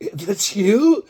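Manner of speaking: high loud "That's you?" of disbelief; to the viral guy standing beside her, a shocked high cry; surprised. Retold or imitated. Shocked high squeal. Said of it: "And I'm like".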